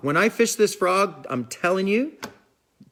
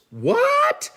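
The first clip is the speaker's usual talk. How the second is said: surprised what. Real, not acted. Shocked by a viewer's question.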